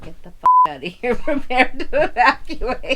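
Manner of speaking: frantic shouted warning; mock panicked yell. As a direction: yell it like an emergency.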